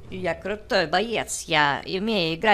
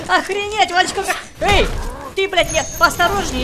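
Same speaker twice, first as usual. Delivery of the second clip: angry; 8 semitones higher, 4 dB louder than usual. Real, not acted. Ругается на соперника в игре.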